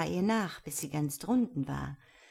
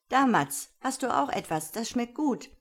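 higher, eager offer to a little bird; chatty treat-giving, pitched up; boy feeding a pet; 5 semitones higher, 4 dB louder than usual. A narrator's reading. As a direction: offer a tidbit brightly.

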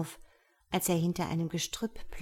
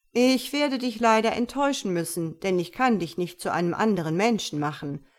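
great djinn; 4 dB louder than usual. Acted. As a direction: speak as a mighty, gracious djinn. Dschinn voiced by narrator. (langsamer, lauter und erhabener Dschinn)

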